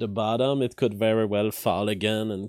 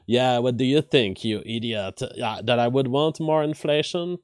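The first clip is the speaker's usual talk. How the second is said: dry sarcastic retort. Retold or imitated. Streamer voicing Biden's sarcastic retort. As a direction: toss it back mockingly, "you idiot". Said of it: "He's sarcastically saying".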